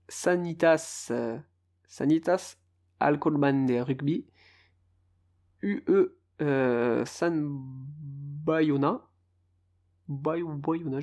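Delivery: club names in an attempted Spanish accent, haltingly; amateur Spanish accent, name by name; best Spanish accent. Shown as a demonstration. Podcaster reading the Spanish league table in his best Spanish accent. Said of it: "mon plus bel accent aussi".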